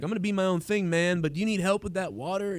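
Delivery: hint of a sixteen-year-old valley girl; breezy mock hippie, barely put on. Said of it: "you sound like a sixteen-year-old valley girl".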